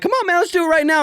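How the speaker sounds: dance around taunting him; mock challenge. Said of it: "I'm like".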